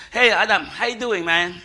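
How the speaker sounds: put-on casual American-accented greeting. God greeting Adam, in a casual American accent. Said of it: "God spoke in American accent".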